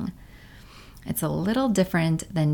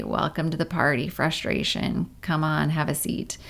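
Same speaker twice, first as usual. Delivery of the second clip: gentle welcome. Retold or imitated. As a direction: invite frustration to sit by the fire. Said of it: "and you say".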